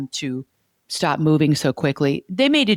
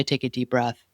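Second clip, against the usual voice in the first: softer, calm advice to breathe; gentle reassurance; 4 semitones lower, 5 dB quieter than usual. Retold or imitated. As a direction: soothe a dysregulated wife. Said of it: "You'll say".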